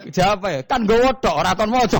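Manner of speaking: high and loud, laughing through the words; cracking up at his own punchline. Real, not acted. Preacher laughing as he tells the congregation the punchline.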